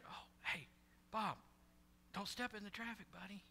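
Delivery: very soft, feeble warning; mock whisper. Shown as a demonstration. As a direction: murmur a half-hearted warning to a buddy. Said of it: "You think I'm gonna whisper?".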